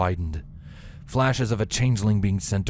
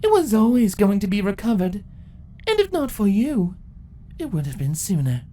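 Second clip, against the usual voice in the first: calm; 12 semitones higher than usual. Acted. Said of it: "calmly replied".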